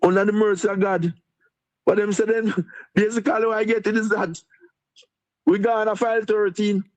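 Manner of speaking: jovial. Real, not acted. Deputy mayor laughing off the hurricane pressure, jovial. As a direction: laugh it off, sounding happy. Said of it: "why you laughing, you sound happy, you sound jovial".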